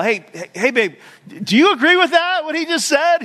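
high, loud mock gal hollering to her babe; calling out gal. Gal shouting across church to her husband, high and loud. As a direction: holler across the room, hammed up. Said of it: "one person is just like".

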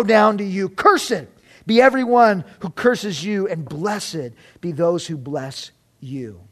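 proclaimed blessing, measured and emphatic; scripture blessing. A narrator's reading. Father blesses his son in the story, solemn proclamation read aloud. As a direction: pronounce the blessing firmly, easing down at the close.

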